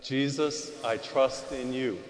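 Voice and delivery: congregation response. Pretend. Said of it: "Say that".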